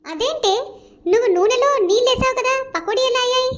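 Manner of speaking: high-pitched, acted disbelief; baffled questioning. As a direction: question it with pitch lifted throughout. Baffled that water in oil made pakodas.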